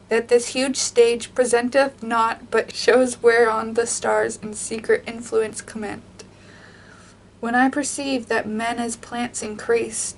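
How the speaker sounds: measured, even reading of a sonnet; poem reading. Acted. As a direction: read the verse with care and weight. Reads sonnet fifteen aloud.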